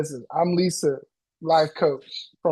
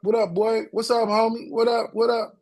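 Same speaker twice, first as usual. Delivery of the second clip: street greeting; 4 semitones higher than usual. Retold or imitated. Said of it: "You know how some people be like".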